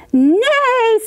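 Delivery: loud high neighing horse. Acted. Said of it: "said the horse".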